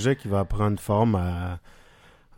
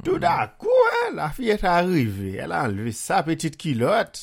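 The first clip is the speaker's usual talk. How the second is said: Haitian Creole accent, pitched up for a mock romance read; 7 semitones higher than usual. Joking host reads erotic novel in a hammed-up Haitian accent. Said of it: "lire avec mon accent haïtien".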